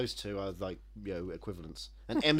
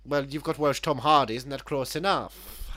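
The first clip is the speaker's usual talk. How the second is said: mock Welsh accent; 3 semitones higher, 5 dB louder than usual. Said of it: "I want Welsh Christian Bale".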